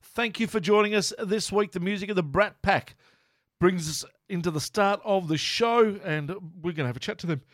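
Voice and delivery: hiccuping through the intro; with hiccups. Real, not acted. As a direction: talk with the hiccups. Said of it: "Excuse my hiccups there".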